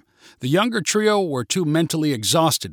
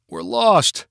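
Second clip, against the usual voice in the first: cried out; 6 semitones higher, 4 dB louder than usual. Acted. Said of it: "cried Max and Gabby".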